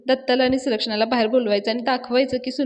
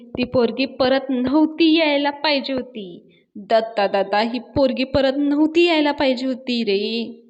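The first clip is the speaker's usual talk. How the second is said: crying; 3 semitones higher, 3 dB louder than usual. Acted. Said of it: "Sulakshana रडतच म्हणत असते".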